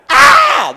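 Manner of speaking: high piercing mock scream of fright; hammed-up shriek of terror. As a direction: shriek like a woman startled by a mouse. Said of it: "the women went".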